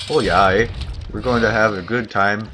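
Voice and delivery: hammed-up stereotypical Canadian accent; Bob and Doug Canadian. Streamer playing Bob and Doug over his game, Canadian accent. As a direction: play a laid-back Canuck with "eh" tags. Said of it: "I'm talking like Bob and Doug now".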